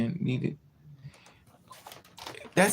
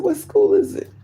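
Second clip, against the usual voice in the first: high-pitched, louder exasperated question; retold exasperation; 5 dB louder than usual. Woman pressing drunk friend for his location, exasperated. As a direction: push it up high, demanding an answer.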